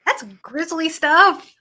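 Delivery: retold surprise. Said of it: "And I was like".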